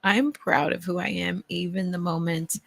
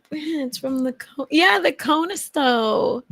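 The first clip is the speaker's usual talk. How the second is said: retold earnest explanation; 8 semitones higher, 5 dB louder than usual. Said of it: "I was like".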